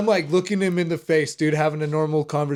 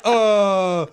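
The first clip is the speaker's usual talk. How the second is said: lightly voiced unsure stranger, higher and louder; hesitant, higher-pitched helpful guess; puzzled campers; 4 semitones higher, 5 dB louder, slower than usual. Campers answer a man seeking River, mildly puzzled.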